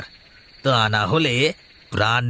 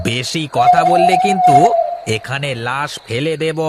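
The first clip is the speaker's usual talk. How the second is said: menacing threat; 5 dB louder than usual. Acted. Dacoit threatens to kill.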